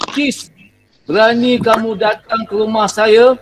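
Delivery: mild mock indignation; angry example. Shown as a demonstration. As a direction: model an angry exclamation for pupils. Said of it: "Okey, kita bagi contoh ayatnya". (contoh marah yang dibuat-buat)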